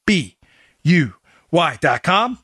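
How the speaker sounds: slow, spelled-out cheer chant; cheerleader. Pretend. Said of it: "Sound like a cheerleader".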